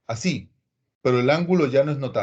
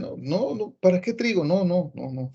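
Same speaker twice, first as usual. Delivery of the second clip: dismissive student; 3 semitones higher than usual. Retold or imitated. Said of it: "se dejan llevar y dicen".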